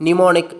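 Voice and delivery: ന്യൂമോണിക് starting on N, first M silent. Shown as a demonstration. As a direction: say ന്യൂമോണിക് with no opening M sound. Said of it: "ഒരു മ sound silent ആണ്". (ന്യൂമോണിക്, ആദ്യത്തെ മ ഉച്ചരിക്കാതെ)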